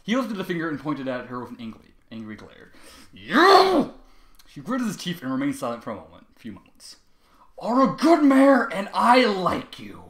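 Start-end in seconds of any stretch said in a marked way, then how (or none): 3.1-3.9 loud high accusing bark; angry shout. Acted. Trevor points at the teacher, loud and accusing. 7.6-10.0 slow, loud, sing-song turnabout; mock sweet. Trevor surprises the teacher with slow hammed-up praise. Sudden switch after the threat.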